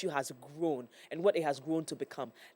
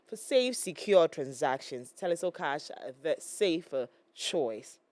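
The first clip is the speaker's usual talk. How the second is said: upbeat ad read for the listeners; radio ad read. Acted. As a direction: sell it like a radio spot.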